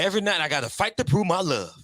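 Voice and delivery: quoting a favorite film line dramatically; movie quote. Retold or imitated.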